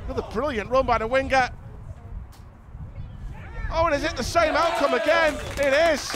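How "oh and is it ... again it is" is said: excited goal call. Real, not acted. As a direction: sell the repeat goal, stretching out home. Second goal called live.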